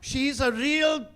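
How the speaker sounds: slow, high, loud indignation; mother fuming. Acted. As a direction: hold back the swearword, furious, word by word. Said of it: "she was just fuming".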